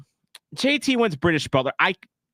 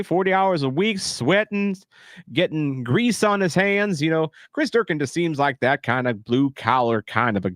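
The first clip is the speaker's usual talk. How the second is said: redneck voice. Acted. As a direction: lay on a thick redneck twang. Streamer holds redneck commentator voice.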